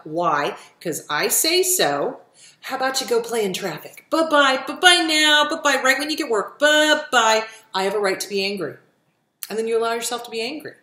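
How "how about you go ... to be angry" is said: loud, high, sing-song bye-bye dismissal; taunting goodbye to guilt, louder and higher; mocking bye-bye. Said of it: "you acknowledge it".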